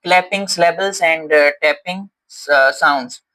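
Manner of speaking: drawn-out teacher heading clapping syllables and tapping sounds; slow heading read. Shown as a demonstration. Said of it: "heading read aloud".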